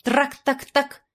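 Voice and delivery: high, slow chattering animal cry; chittering war cry. Acted. Little animal's battle cry at the robber, high chatter. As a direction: chatter like a small beast. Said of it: "прострекотал свой боевой клич".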